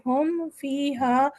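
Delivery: ہم فیہا slow, meem short and distinct; clear meem, izhar. Shown as a demonstration. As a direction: say ہم crisply, then فیہا. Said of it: "میم کو clear پڑھیں گے".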